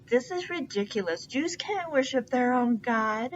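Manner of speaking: a touch of pompous fury; megalomaniac rant. Acted. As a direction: rant like a vain tyrant. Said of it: "megalomaniac rant".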